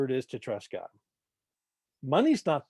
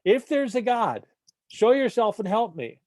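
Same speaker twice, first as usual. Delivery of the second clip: higher, louder panicked plea; hanging hiker repeats his prayer, now in full panic; panicking; 6 semitones higher, 4 dB louder than usual. Retold or imitated. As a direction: cry it up to the sky in a panic. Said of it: "Now he's panicking".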